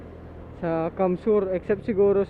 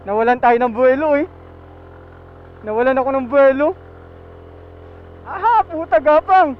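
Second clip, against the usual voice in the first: straining uphill; 4 semitones higher, 7 dB louder than usual. Real, not acted. Struggling motorbike up steep slope.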